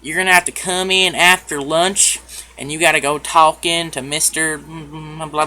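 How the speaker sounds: put-on country Tennessee accent. Front desk lady sending a student to the headmaster, country Tennessee accent. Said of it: "So this is how she talked".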